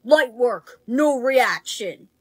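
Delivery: low, slow and unbothered; deadpan. Acted. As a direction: play it totally cool. Plays it cool after peppers.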